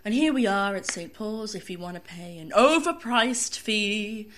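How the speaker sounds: slow, sarcastic announcement with a laugh; a hint of a snarky train driver; sassy tube driver. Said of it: "really sassy tube driver".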